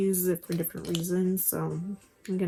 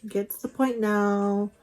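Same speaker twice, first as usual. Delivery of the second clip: drawn-out, louder okay, as if fed up; mock impatient viewer; 2 semitones higher, 4 dB louder than usual. Viewers tired of all her talking, mock impatience. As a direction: imitate an impatient audience. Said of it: "you guys are probably like".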